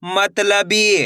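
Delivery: मतलबी very slow, syllables stretched; blended syllable reading. Shown as a demonstration. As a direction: draw out मतलबी for learners. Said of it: "तो मिलके बन जाएगा". (मतलबी को धीरे से खींचकर)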